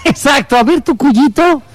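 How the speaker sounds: put-on joining in, high-pitched Peruvian accent; slow down into a teasing Peruvian lilt; mock Peruvian accent. Co-host playing along about the cuyito, mock Peruvian accent. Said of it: "con acento peruano".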